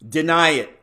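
loud ghostly command; crying out. Acted. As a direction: call it out as a spirit's command. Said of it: "cried the spirit".

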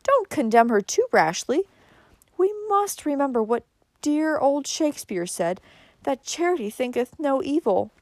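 high-pitched soothing cousin. A narrator's reading. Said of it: "said Cousin Georgiana soothingly".

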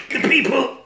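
high, shouty police chief impression; walrus chief voice. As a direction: bluster high like a pompous chief. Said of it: "Police Chief Walrus is going".

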